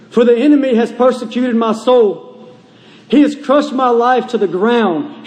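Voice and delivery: fervent reading of a psalm; preaching scripture. Real, not acted. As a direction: read it out with pulpit weight.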